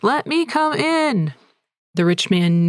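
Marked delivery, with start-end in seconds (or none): 0.0-1.3 put-on high, slow small-boy voice asking to be let in; a child at the door, pitched up and slow; high slow child's plea; little boy pleading. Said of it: "And Lewis is like".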